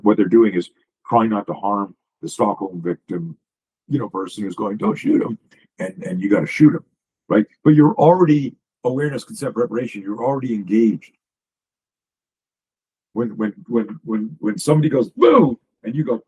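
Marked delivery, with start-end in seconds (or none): 4.8-5.4 a high, pleading cry; pleading hostage. Retold or imitated. Stockholm victim begging the rescue team, high pleading cry. 15.1-15.6 a loud, high sudden boo; spring it on someone to make them flinch; jump scare. Shown as a demonstration. Coach showing a startle to the host, loud high boo.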